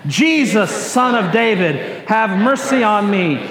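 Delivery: measured group call, each phrase separated; leading congregational cry. Shown as a demonstration. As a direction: lead everyone in a plea for mercy.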